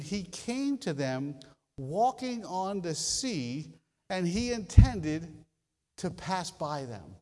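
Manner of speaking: slow, weighty reading of the verse; slow scripture reading. Acted. Preacher reading verse forty-eight slowly to the church. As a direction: let each phrase land.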